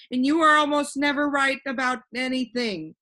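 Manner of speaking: put-on a cheerful know-it-all boy floating in the air; voiced boy Alec. Alec to humbug.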